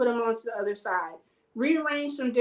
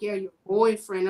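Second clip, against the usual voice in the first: imitating his disdain, lower, leaning on "boyfriend"; disdainful; 4 semitones lower, 3 dB louder than usual. Male client mocking her relationship to his trainer, disdainful. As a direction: put scornful weight on "boyfriend". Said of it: "say that with such disdain".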